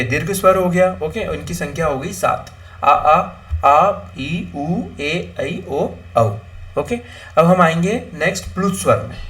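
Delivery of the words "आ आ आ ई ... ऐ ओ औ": drawn-out vowels. Shown as a demonstration. Teacher recites the long vowels.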